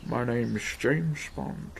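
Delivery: slow, lightly voiced suave spy; a hint of the iconic Bond delivery, drawn out; understated slow spy-movie intro; James Bond line. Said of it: "quite a iconic voice, that fella".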